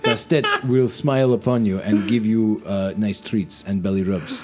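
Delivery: put-on light Russian-accented comrade cat; mild Russian accent, earnest. Russian blue welcoming the paladin, light Russian accent. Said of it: "he says".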